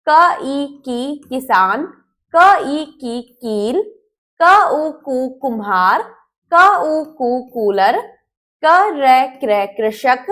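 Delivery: क, then the vowel, then the syllable, each said very slowly; spelling out syllables. Shown as a demonstration. Teacher drilling क with each vowel sign for pupils, slow. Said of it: "जैसे".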